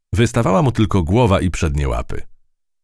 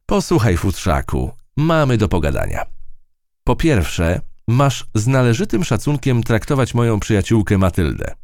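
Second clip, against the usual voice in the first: higher, lively little mouse voice; plucky field mouse telling her tale; 7 semitones higher than usual. Acted. Mouse scolds the cat.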